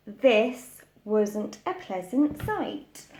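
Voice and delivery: gentle storybook reading voice; lightly voiced picture-book narration; story narration. A narrator's reading. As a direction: read it like a bedtime story for little ones.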